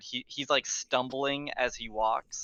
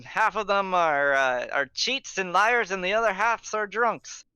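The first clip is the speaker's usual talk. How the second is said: put-on drunk guard captain. GM voices the guard.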